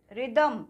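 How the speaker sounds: रिदम starting on a plain R; रिदम, first H left unspoken; silent H. Shown as a demonstration. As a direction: say रिदम with no H after the R. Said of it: "एच को silent किया".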